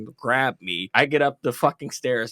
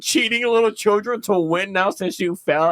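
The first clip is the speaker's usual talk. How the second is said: a scolding question broken by laughter; laughing disbelief; 5 semitones higher than usual. Retold or imitated. Older sister scolding her brother while laughing. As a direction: scold him while cracking up. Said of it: "my older sister looks at me and says".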